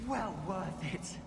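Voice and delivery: winded from climbing stairs; puffing after the stairs; out of breath. Real, not acted. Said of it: "I'm out of breath after all those stairs".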